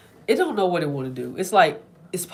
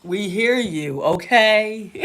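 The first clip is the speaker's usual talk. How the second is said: firm telling-off; 4 semitones higher, 9 dB louder, slower than usual. Retold or imitated. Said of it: "I'm like".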